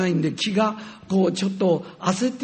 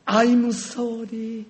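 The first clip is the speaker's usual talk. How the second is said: tender apology; 4 semitones higher, much slower than usual. Retold or imitated. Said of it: "ハグして".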